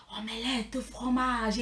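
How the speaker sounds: slow, exaggerated French accent; Dexter's French. Quoting Dexter's Laboratory in a mock French accent. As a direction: drawl it like a cartoon boy genius showing off French. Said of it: "laboratorio de Dexter que decía".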